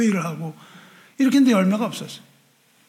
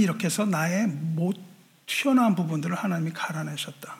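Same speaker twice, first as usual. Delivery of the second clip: whisper; 4 semitones lower, 5 dB quieter than usual. Retold or imitated. Quoting the memoir softly.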